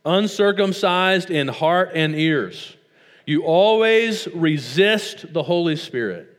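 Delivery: preacher rebuking a stubborn crowd; Stephen preaching. Acted. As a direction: read Stephen's charge with weight. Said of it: "He says".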